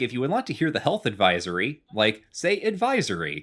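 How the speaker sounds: automated phone voice. Retold or imitated. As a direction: sound like a recorded phone menu. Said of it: "like a automated bank teller".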